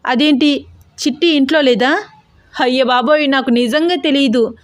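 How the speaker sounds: high, tearful protest; frightened, weepy voice; crying denial. A narrator's reading. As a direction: whimper out the denial. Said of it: "అని ఏడుస్తూ అన్నాడు".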